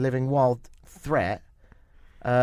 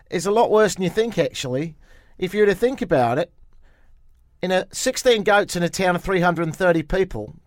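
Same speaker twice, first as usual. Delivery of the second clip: put-on slightly raised New Zealand-accented quote; mock New Zealand accent; 4 semitones higher than usual. Host quoting a goat official's figures, mock New Zealand accent. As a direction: quote him earnestly in a Kiwi accent.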